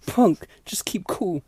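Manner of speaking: hushed warning; an anxious whisper to Punk; urgent whisper. Retold or imitated. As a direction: whisper it so the cop won't hear. Alison urging calm.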